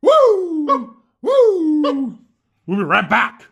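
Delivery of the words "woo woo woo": excited woo. Real, not acted. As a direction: whoop it up like a party. Hyping the break, calling out.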